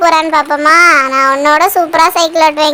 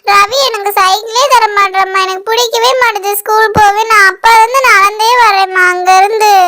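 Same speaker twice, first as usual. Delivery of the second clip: tearful complaint. Acted. Child complains to mother about brother's bicycle, tearful whining. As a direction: wail your grievance like a sulking child. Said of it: "எதுக்கு இப்படி அழுதுகிட்டு இருக்க".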